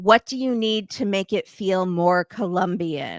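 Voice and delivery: put-on annoyed voice. Retelling an annoyed reply from a show: imitating annoyed Jessica. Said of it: "she is so annoyed".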